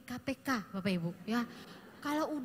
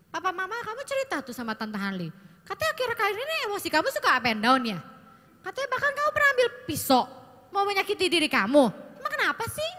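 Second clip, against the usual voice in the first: worried questioning; 6 semitones higher, 8 dB louder than usual. Acted. Parent-style worried questioning of teen.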